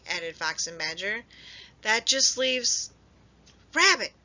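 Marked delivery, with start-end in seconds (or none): 1.8-4.1 slow build to a loud high Rabbit; alarmed cry. A narrator's reading. Friends noticing Rabbit missing, alarmed cry. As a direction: realize and cry out the name. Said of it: "they all cried".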